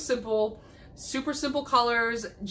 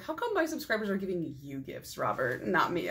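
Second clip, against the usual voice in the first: mock jealous; 5 dB quieter than usual. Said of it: "I'm just kidding".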